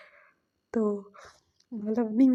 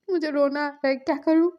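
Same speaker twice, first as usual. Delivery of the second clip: higher, louder mock-tearful wail; about to cry; 4 semitones higher, 5 dB louder than usual. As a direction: whine helplessly, close to tears. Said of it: "अरे double रो क्यों रहे हो". (रोने जैसी ऊँची, बेबस आवाज़)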